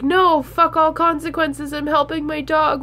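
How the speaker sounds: defiant inner voice. Pretend. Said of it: "be like".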